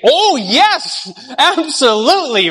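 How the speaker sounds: mock eager yes. Stacy accepting the proposal, in mock delight. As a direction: gush out a pretend yes.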